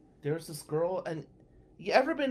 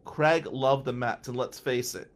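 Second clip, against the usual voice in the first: mock eulogy; 2 semitones lower than usual. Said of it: "And I say".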